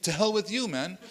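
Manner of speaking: acted-out indignation, pitch climbing to the retort; mock-offended visitor protesting; offended mourner. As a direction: start sincere, turn affronted. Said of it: "you can see that's his expression".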